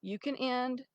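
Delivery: real, earnest plea; pleading. Real, not acted. Mother begging Sanan to end the court fight, pleading. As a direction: beg them earnestly, leaning on the first words. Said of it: "I'm begging you".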